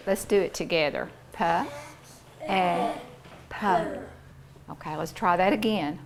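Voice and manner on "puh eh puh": "P, E, P" as puh, eh, puh; three separate sounds with long gaps; sounded out. Shown as a demonstration. Teacher doing sounds together with pupils, puh, eh, puh spaced out. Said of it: "What are those sounds?".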